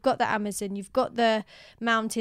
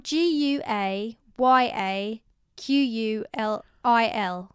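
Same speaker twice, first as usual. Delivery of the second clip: slow, letter by letter; spelling it out; slower than usual. Shown as a demonstration. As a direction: spell each letter slowly. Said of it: "it's spelled".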